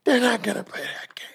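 high, breathy near-whispered mock protest; wife's objection. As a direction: imitate a disapproving wife in a high, airy voice. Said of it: "my wife were like".

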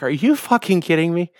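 high-pitched, incredulous protest; retold exasperation. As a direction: protest in acted-out disbelief. Retold reaction to flat spare.

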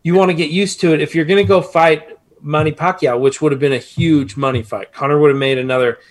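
talking while banging the desk; hitting the desk. Real, not acted. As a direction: thump the desk as you talk. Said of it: "just quit hitting your desk".

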